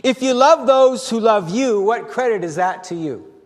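sarcastic, needling rebuke; biting sarcasm. Shown as a demonstration. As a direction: bite the words, mock the easy love. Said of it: "it's biting".

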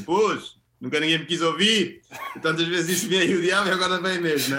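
profeta da desgraça em tom de troça; profeta da desgraça imitado. Retold or imitated. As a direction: imita ao de leve um profeta que se queixa. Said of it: "a dizer assim". (profeta ressentido, em imitação ligeira)

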